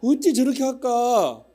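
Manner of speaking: hammed-up Jeolla grumble, the last words slowed; Jeolla auntie. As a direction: Jeolla elder lady fussing loudly, high-pitched. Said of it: "또 전라도 권사님은".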